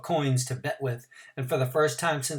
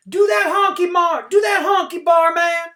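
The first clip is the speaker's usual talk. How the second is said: high, loud jeering shout; shouted cheer; 10 dB louder than usual. A narrator's reading. Spectator shouting for Mars Bar, loud jeering cheer. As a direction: rile up the runner. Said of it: "someone said".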